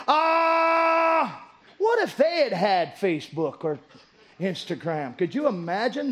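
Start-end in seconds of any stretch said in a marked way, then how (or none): 0.1-1.4 mock wail. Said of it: "they're wailing".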